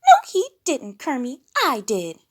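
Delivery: high, loud insisting. A narrator's reading. Piggy insisting to Kermit she had the hat first. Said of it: "insisted Baby Piggy".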